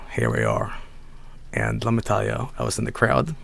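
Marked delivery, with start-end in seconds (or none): 0.1-0.7 hushed reveal. Real, not acted. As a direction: whisper it like showing a secret.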